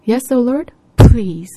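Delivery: high, loud plea; pleading cry. Acted. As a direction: beg out loud. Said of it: "the deaconess said".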